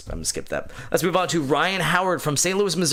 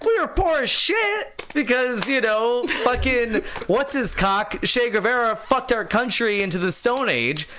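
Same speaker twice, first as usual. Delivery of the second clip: exaggerated indignant voice; 7 semitones higher than usual. Reading as Cuban-Canadian writer.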